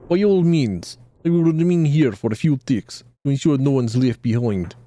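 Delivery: put-on lightly done Russian accent, a touch smug; a hint of Russian accent, knowing scholar; mild Russian-accented guide giving advice. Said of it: "giving him the Russian accent".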